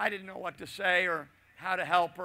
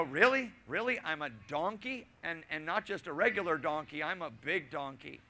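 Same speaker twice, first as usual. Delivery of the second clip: mock disbelief; 4 semitones lower, 5 dB quieter than usual. Real, not acted. Stunned by insult.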